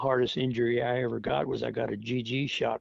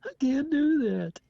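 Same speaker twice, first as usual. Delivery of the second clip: a much higher whispered whimper, slow; mock timid refusal; 14 semitones higher, 4 dB louder than usual. Veteran mocks a recruit refusing his sergeant, whispered and pleading. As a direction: play the scared recruit begging off. Mocking a soldier refusing orders.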